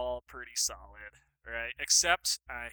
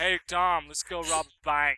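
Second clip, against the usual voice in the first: put-on Boston accent; 3 semitones higher, 4 dB louder, slower than usual. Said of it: "with a Boston accent".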